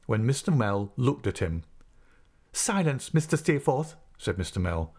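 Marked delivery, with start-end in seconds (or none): 2.5-4.0 raised-pitch order from a ruffled master; stern command. Acted. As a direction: call the pupil to order, pitch lifted. Master orders defiant pupil to silence.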